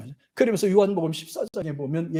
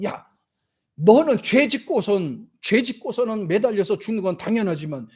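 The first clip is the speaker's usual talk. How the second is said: scolding the other thief in a raised higher voice; rebuking; 4 semitones higher than usual. Retold or imitated. Repentant thief scolding the other criminal, raised rebuke. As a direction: tell him off sharply, mock rebuke. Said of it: "한쪽에 있는 강도가 말을 해요".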